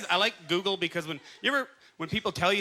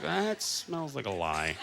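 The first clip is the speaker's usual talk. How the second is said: attitude; 6 semitones lower, 5 dB quieter, slower than usual. Retold or imitated. Doubting the buddy's claim.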